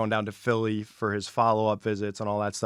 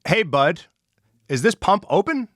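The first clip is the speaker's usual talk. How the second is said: friendly greeting; 7 semitones higher, 4 dB louder than usual. Retold or imitated. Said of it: "I'm always super nice to people".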